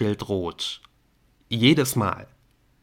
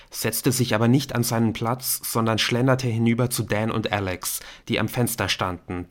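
ordinary delivery, nothing marked

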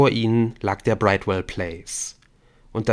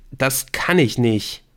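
slow, higher plea; anxious, drawn-out refusal; frightened refusal; 4 semitones higher, 4 dB louder, slower than usual. Acted. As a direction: balk in fear at the window. Terrified man refuses.

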